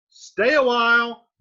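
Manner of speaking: high, loud call toward the door. Acted. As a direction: shout it out to whoever is knocking. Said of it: "talking back and forth to the door".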